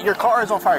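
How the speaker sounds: incredulous laugh, pitch up. Real, not acted. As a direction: laugh out the warning in disbelief. Officer laughs at disbelieving driver.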